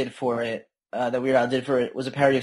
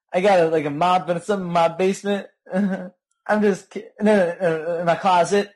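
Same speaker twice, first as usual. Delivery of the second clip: quoting a singer's lyric; 4 semitones higher than usual. Retold or imitated. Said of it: "He's got a".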